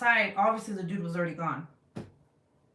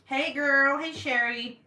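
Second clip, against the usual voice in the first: cheery greeting; 6 semitones higher, 4 dB louder, slower than usual. Real, not acted. Greeting a live viewer.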